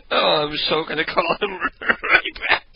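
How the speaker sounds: normal talking voice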